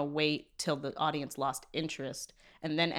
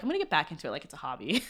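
mock quote, laughing; 3 semitones lower, 5 dB quieter than usual. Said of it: "I like how you're like".

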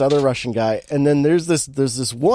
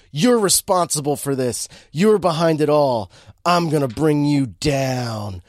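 mock dramatic accusation. Cop accuses the Russian guy, mock dramatic. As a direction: draw out the last words like a TV cop.

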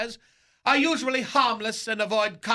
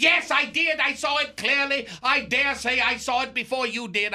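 erupting; 3 semitones higher than usual. Retold or imitated. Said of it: "He erupted".

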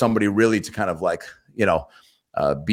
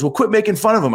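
much higher, squeaky little leprechaun yelling back; mock the tiny boss with a shrill high-pitched whine; imitating a drunk little leprechaun boss; 12 semitones higher than usual. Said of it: "he had a super high leprechaun voice".

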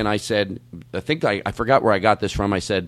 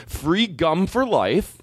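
slow; 6 semitones higher, much slower than usual. Acted. Making a dumb wish.

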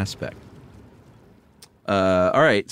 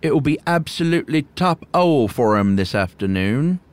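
put-on creaky old hermit; 5 semitones higher, 4 dB louder than usual. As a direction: play the awkward old hermit. Voices the hermit.

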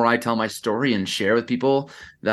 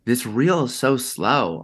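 slow, dragging quote; slower than usual. Retold or imitated. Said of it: "he sent it back to me and I'm like".

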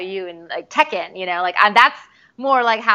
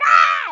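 mock yell; 12 semitones lower, 4 dB louder than usual. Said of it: "I'm like".

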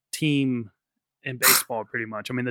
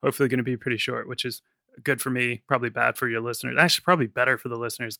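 fast, wired rambling; rushing on too much coffee; too much caffeine; faster than usual. Real, not acted. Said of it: "I'm fucking wired on coffee".

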